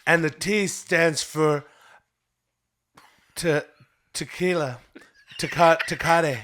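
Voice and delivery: tipsy Trump fumbling the word; drunk. Pretend. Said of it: "I'm Donald Trump".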